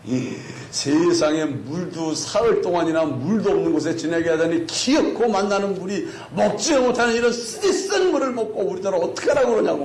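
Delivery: acted-out outburst of resentment; imitated angry grievance; explosive complaint. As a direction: complain bitterly, pitch climbing as it goes. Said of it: "그때 막 폭발을 해버립니다".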